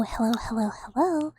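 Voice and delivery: a light playful hello hello hello; her greeting bit. Shown as a demonstration. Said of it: "Just like how I go".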